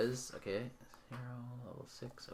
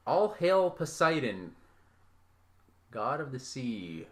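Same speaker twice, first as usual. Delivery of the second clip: voice in the head; slower than usual. Acted. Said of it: "you hear a voice".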